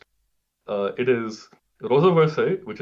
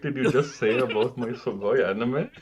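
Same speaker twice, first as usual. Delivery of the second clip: hammed-up weeb voice, anime slang; overacted anime dub. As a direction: ham it up like a cringe anime fan. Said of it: "I cannot speak like this".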